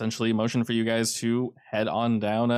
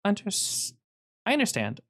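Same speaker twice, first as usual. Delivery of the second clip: much higher character voice; wife character; 10 semitones higher than usual. Acted. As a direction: voice the wife high, halting at first. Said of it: "She says".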